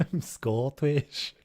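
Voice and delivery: slow, put-on Scottish accent. Gamer joking mid-laugh, overdone Scottish accent. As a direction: draw it out in mock Scottish. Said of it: "it was a bit Scottish just popped out".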